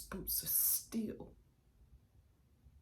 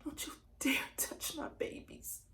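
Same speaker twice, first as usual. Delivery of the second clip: winded, struggling warning; weak rattle; 4 semitones higher than usual. Acted. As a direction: force it out with little breath left. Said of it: "still a little rattle in my mouth".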